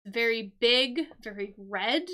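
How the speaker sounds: loud, punchy description; emphatic. Shown as a demonstration. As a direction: hit each word big and bold. Describing the stop sign clue.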